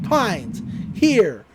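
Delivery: stern orders, one word at a time; mock angry. Angry pool boss summoning his employee, mock stern. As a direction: imitate a furious boss with punched, separated words. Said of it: "who's super angry".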